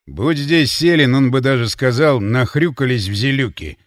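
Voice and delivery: tongue tied with drink; slurred drunk speech. Acted. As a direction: drunk young man slurring. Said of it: "заплетающимся языком вставил Ворон".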